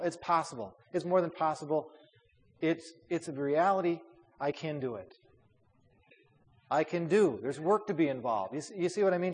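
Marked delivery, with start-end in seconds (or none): 4.4-5.1 "can" stressed, softer settling fall after it; weight on "can", then let it settle softly. Shown as a demonstration. Teacher concluding that it is a reality, stress on can. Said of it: "put the emphasis on the word can". 6.7-7.4 "do" carries the weight and closes the phrase; stress on DO. Shown as a demonstration. Teacher moving emphasis to the next word, stress on do. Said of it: "Just put a different emphasis on".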